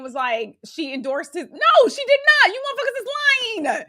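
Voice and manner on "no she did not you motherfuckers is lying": high, loud indignant denial; outraged yelled no; indignant outburst. Real, not acted. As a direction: call out the lie loudly. Angry denial of campaign lie.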